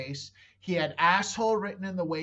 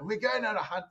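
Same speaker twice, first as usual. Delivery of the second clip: put-on Australian accent; 4 semitones higher, faster than usual. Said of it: "I really tried to do it".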